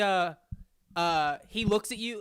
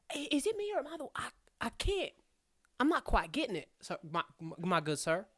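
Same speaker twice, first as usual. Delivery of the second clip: put-on hard-of-hearing old gnome; 3 semitones higher, 4 dB quieter, faster than usual. Gnome mishears Smoke.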